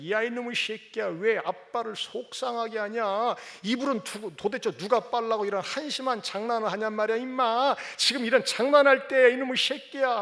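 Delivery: put-on father yelling at the child over the spilled ramen, building anger; angry scolding. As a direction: scold the boy harder and harder.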